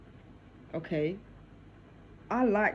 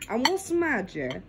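chewing while talking; mouth full; 4 semitones higher than usual. Real, not acted. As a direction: talk through a mouthful of food. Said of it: "Sorry, I'm chewing".

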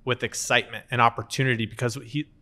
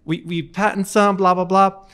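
excited dad; 9 semitones higher, 3 dB louder than usual. Retold or imitated. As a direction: gush like a proud father about his peas. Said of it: "And he goes".

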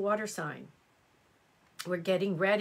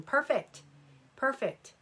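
delighted; 6 semitones higher than usual. Real, not acted. Viewer already started indoor garden.

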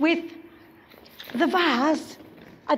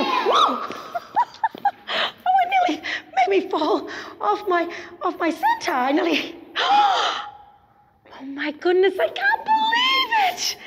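high shout of amazement with laughter; surprised. Acted. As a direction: reel back, laughing in disbelief. Vase fills, performer reels.

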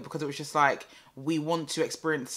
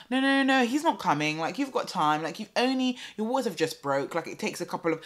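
higher, patronising no no no; mock dismissive midwife; 5 semitones higher than usual. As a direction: brush her off condescendingly.

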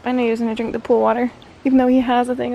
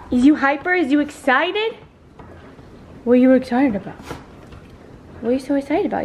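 high, loud cooing pet voice; sing-song doggy talk; 3 semitones higher, 4 dB louder, faster than usual. Real, not acted. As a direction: coo at an excited puppy. Baby talk to hyper dog.

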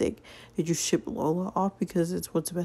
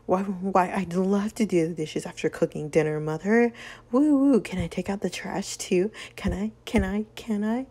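sarcastic. Acted. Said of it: "that charming sarcasm".

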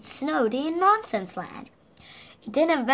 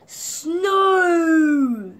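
louder, higher gleeful cry; excited cry; 5 semitones higher, 8 dB louder than usual. Acted. Mister Silly seeing snow from his window, delighted cry. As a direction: shout snow with joy.

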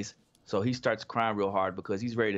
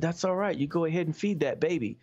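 higher, mock-polite sheriff; sheriff's reply; 4 semitones higher than usual. Sheriff warning the family off, higher mock-polite voice. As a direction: play the sheriff sweet but warning. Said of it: "he said".

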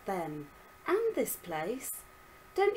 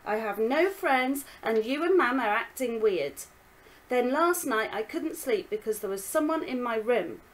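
put-on angry girl; 3 semitones higher, 7 dB louder than usual. Daughter argues back.

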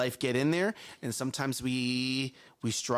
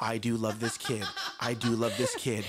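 low, measured parental mantra; strained self-convincing; 5 semitones lower than usual. Acted. Worn parent to self over screaming baby, low forced calm. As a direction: repeat it to convince yourself.

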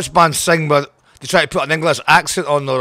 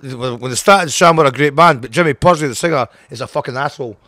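louder, heated outburst about a singer he despises; heated rant; 6 dB louder than usual. Real, not acted. Angry rant about a former singer.

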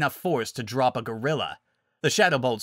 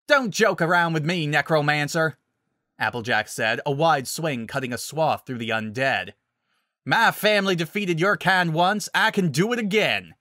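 defiant shouting; 4 semitones higher, 3 dB louder than usual. Acted.

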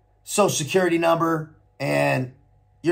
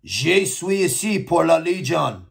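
careful, slow French read from a translation; nervous newcomer reading French he memorised; reciting memorised French. Retold or imitated. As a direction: slowly recite rehearsed French. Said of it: "Google translated so-, in something in French".

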